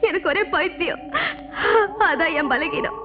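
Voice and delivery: crying through the words; terrified woman confessing to the ghost, crying; tearful confession. Acted. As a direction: confess while weeping.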